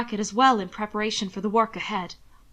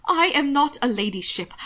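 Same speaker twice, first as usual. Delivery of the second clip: frayed protest; 4 semitones higher, 3 dB louder than usual. Acted. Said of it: "sounding frayed and frustrated and frightened".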